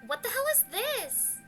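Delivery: high shocked yell; horrified shout. Acted. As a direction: shout it in disbelief.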